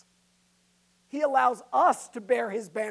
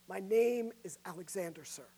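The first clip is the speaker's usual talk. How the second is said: meek and quieter reply; 3 semitones lower, 7 dB quieter than usual. Acted. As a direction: answer meekly, voice dropping. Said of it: "the soldier meekly replied".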